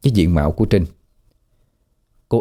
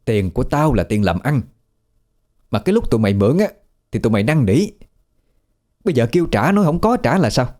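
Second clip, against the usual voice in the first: understated angry scolding with a sudden higher peak; scolding debt collector; 3 semitones higher than usual. Acted. Creditor demanding her money from the debtors, scolding. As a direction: tell them off without raising the volume. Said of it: "đang chống nạnh mà đứng chửi".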